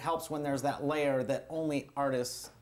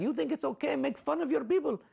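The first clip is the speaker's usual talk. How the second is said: higher, disapproving question; scolding elder; 10 semitones higher, faster than usual. Retold or imitated. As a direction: chide a comic for mocking his people. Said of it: "I've had people like that".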